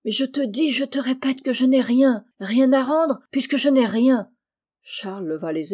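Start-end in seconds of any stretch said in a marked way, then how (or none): 0.1-4.3 high, loud desperate insistence; frantic pleading protest; imploring. A narrator's reading. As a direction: beg and insist with mounting force. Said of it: "joignant les mains".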